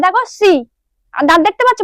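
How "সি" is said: সি made with teeth closed; closed-teeth articulation. Shown as a demonstration. Teacher demonstrating the letter C to learners, closed-teeth articulation. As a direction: say সি off the tongue's end through closed teeth. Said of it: "দাঁত বন্ধ থাকছে".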